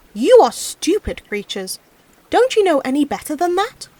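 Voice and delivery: calls out, mild shout across the water. Acted. Peasant shouting at the frogs in the pond, mild shout. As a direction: call scornfully to the frogs. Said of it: "he shouted to them".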